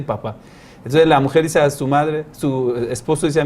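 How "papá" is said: put-on baby's first word. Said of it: "entonces al final dice".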